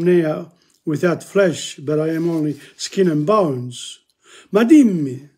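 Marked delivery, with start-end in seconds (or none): 4.5-5.3 acted plea. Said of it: "he says".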